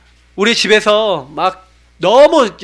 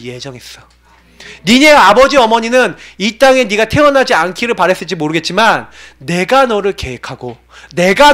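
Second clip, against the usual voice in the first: voice of God. Retold or imitated. Voices God answering him through scripture.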